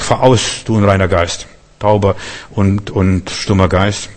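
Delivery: low, slowing command, not shouted; stern rebuke. Retold or imitated. Jesus commands an unclean spirit to leave, stern rebuke. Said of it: "Jesus bedrohte diesen Geist und sagt".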